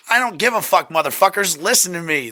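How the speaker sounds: mock projecting to the whole room; imitated commanding voice. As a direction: act out a voice that demands to be heard. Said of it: "you have that voice where it's like".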